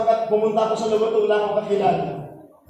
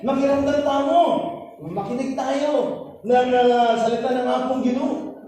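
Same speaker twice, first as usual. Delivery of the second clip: imitated old man; 5 semitones higher than usual. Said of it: "Sabi niya".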